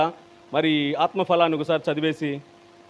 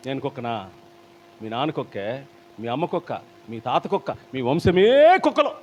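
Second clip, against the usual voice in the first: mock indignant retort; 4 semitones lower than usual. Mocked offended retort.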